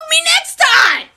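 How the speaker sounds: high, shouted rallying cry; triumphant shout. Pretend. Kid vowing revenge on the teacher, shouting high. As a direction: yell it out like a battle cry. Celebrating pissing on carpet.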